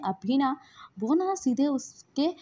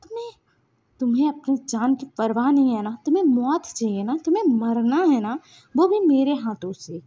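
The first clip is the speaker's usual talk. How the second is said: mild, louder indignant challenge; angry confrontation; 4 dB louder than usual. Acted. Wing confronts the man who insulted Lansan, angry. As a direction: push out a threat in rising anger. Angry character threatens attacker.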